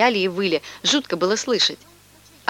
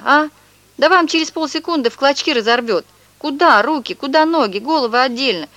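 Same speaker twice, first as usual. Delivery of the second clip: higher, agitated hammed-up yell; 4 semitones higher than usual. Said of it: "перестал выть и заорал".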